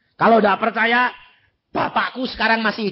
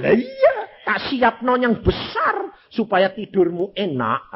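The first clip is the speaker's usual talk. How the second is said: crying voice; 5 semitones higher than usual. Retold or imitated. Voicing a reply that breaks into tears.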